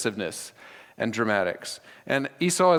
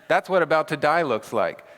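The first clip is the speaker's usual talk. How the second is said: laughing; 3 semitones higher than usual. Real, not acted. Laughs mocking dying Esau.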